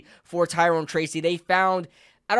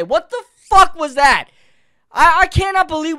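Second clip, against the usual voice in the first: a fan who can't believe the play call, laughing; incredulous laughing outburst; 9 semitones higher, 8 dB louder than usual. Real, not acted. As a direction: laugh through the outrage. Outraged at the two-point play.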